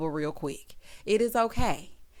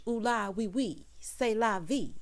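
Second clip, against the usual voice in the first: mock French; 4 dB quieter, slower than usual. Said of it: "Have you speaking in French?".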